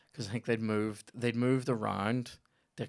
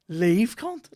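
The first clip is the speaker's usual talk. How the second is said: higher, louder impatient shout; mock shout; 9 semitones higher, 10 dB louder than usual. Sitting in the audience, shouting at an overrunning comic. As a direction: bark it at the stage. Audience member urging comedian off.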